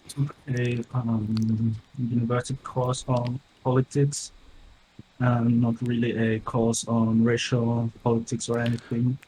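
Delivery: metallic, robotic mic distortion. Real, not acted. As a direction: voice garbled like a robot. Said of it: "Why do you sound like a robot?".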